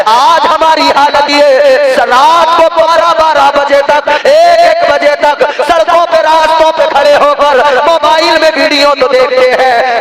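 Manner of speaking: high, ringing sermon reproach; impassioned preaching. Acted. Preacher scolding late-night phone watchers, high and impassioned.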